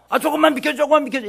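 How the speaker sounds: high, insistent plea to get through; urgent plea. Acted. Friend carrying a sick man through a packed crowd, urgent plea.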